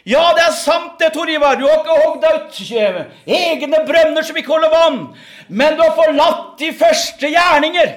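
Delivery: voice of God. Acted. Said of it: "sier Gud klart og tydelig".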